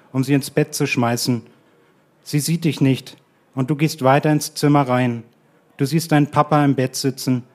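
calm, measured literary reading; story reading. A narrator's reading. Reads his literary text aloud. (ruhige, gemessene Lesung eines literarischen Textes)

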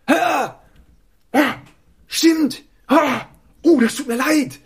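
high, loud flustered exclamations; confused surprise. Retold or imitated. Axel realising he mixed up the brothers, flustered surprise. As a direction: play the caught-out acquaintance suddenly realising. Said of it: "Axel war verwirrt und war so".

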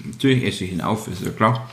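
talking while chewing; words round a mouthful; mouth full. Real, not acted. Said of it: "mit vollem Mund sprechen".

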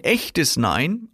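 "echtes Nein" slowed and set apart; stress on ECHTES NEIN. Shown as a demonstration. Seller refusing to accept a customer's refusal, stress on "echtes Nein". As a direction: put clear weight on "echtes Nein". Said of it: "ich lege hier die Betonung auf echtes Nein".

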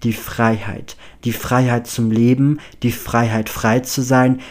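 declaimed verse with emphatic, swelling phrases; measured, emphatic recital of a verse; dramatic poem reading. Acted. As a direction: read it out like a solemn poem. Reads out a poem found on paper.

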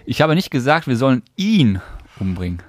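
"ihn" punched; weight on "ihn"; stress on IHN. Shown as a demonstration. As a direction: lean on "ihn". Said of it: "Und jetzt den?".

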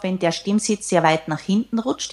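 swallowed, back-of-throat sound like Kermit; demoing a tinny, throaty voice; Kermit the Frog voice. Shown as a demonstration. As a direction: voice placed far back, tinny. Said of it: "Ich mach das jetzt mal vor. Das klingt dann so ein bisschen wie Kermit".

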